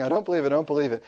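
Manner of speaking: rapid-fire mock disbelief; freaking out. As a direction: repeat it fast, imitating a panicked student. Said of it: "he's freaking out saying".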